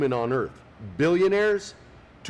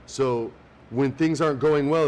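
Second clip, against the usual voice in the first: usual speaking voice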